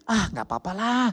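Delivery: imitated breezy shrug-off with a high, lifted "lah"; mock nonchalance; carefree excuse. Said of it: "Dulu kita pikir".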